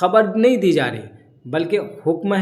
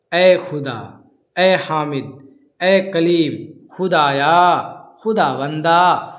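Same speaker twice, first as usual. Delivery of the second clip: louder, drawn-out calls of address; calling out; 4 dB louder, much slower than usual. Shown as a demonstration. Teacher calling out names as examples of address, slow loud calls. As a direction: call out each name slowly.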